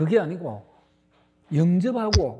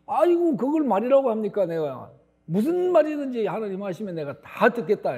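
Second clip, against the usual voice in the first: overeager promise; 4 semitones higher than usual. Retold or imitated. Man overeager to obey.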